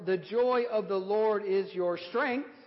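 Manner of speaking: "joy" loud, the whole line slow and strong; slow, loud, lift the word joy; stress on joy again. Shown as a demonstration.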